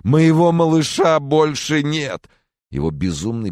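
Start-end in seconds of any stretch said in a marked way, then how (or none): 0.0-2.3 high, loud, slow grieving wail; father wails over his dead son; anguished wail. Acted. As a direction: cry out the loss. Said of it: "простонал он".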